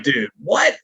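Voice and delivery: mildly freaked-out surprise; stunned disbelief. Retold or imitated. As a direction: blurt it like you can't believe it. Retold stunned reaction to the news.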